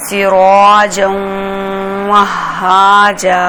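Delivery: very slow, drawn-out tajweed reading; joined recitation. Shown as a demonstration. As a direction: stretch each syllable in recitation. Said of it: "اس کو جب ملانا ہے". (آہستہ، لمبی آواز میں تلاوت)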